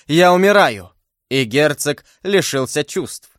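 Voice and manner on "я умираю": high dying exclamation; anguished cry. Acted. Wounded duke feels death coming and cries out in anguish. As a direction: cry out that life is slipping away.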